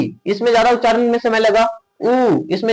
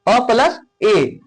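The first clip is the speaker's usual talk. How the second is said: slow vowel demo; much slower than usual. Shown as a demonstration. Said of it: "ए किससे मिलके बना हुआ है?".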